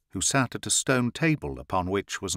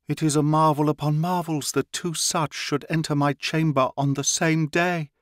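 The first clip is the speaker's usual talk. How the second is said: high, excited proclamation; priestess cries out; 6 semitones higher than usual. A narrator's reading. Priestess marvelling at the two who enter her chamber, high excited cry. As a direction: cry it out in awe at the newcomers. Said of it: "cried the priestess".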